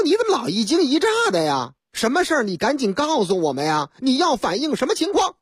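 quick, pushy police questions; a mildly impatient cop; impatient officer. Acted. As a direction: hurry the caller along. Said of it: "警察说".

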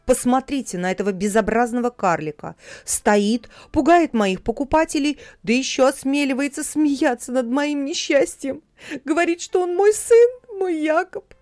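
rising fury against the heartless dwarf; outraged tirade. A narrator's reading. Hanna denouncing the dwarf to the market women, furious. Mother berates dwarf to neighbours.

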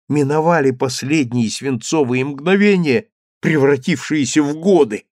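ordinary delivery

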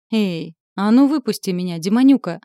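loud indignant shout. A narrator's reading. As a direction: bang on the lid and yell. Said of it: "закричала".

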